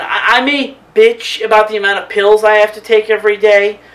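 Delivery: rising to a loud heated rant; loud and fired up, pushing every word. Real, not acted. Vlogger ranting at hipster critics, loud and heated. Ranting about alternative medicine.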